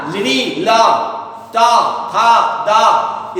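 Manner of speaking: त थ द said alone with the tongue pressed to the teeth; dental letter sounds. Shown as a demonstration. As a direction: demonstrate त, थ, द one at a time for the class. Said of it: "इसमें जिह्वा सटती है दांत में".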